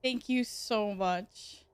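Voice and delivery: drawn-out sarcastic thank you. Real, not acted. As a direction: thank them with heavy irony. Sarcastic thanks for more squats.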